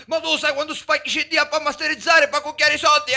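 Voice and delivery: loud rant ending in a yelp; shout, then a cry of pain; angry shouting. Acted.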